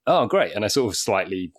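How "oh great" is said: mock enthusiasm. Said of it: "And I was like".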